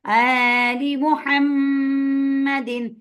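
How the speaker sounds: very slow आलि मुहम्मदिन, drawn out; stretched recitation. Shown as a demonstration. Teacher demonstrating the madd, very slow. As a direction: lengthen the vowels of आलि. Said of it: "थोड़ा सा आपने लंबा करना है".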